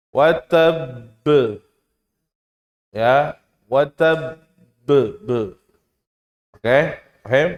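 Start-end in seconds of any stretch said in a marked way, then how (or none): 0.1-0.7 Wa tab with a firm b bounce at the end; correct bounce. Shown as a demonstration. Teacher shows correct ending to students, firm bounce. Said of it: "Gimana berarti". 2.9-5.1 wa tab said slowly, the b bounced as be; slow bounce demo. Shown as a demonstration. Teacher breaks down the ending for students, slow. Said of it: "Gimana berarti".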